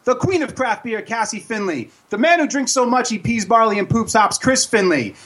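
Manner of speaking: big circus ringmaster announcement. Acted. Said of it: "ladies and gentlemen, boys and girls".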